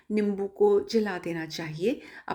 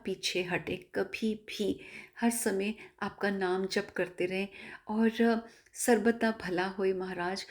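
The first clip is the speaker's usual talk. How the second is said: softer, measured prayer to the guru; devotional prayer; 3 dB quieter than usual. Real, not acted. Devotee asking Guruji's blessing to end her testimony, devotional prayer. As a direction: close in humble, unhurried supplication.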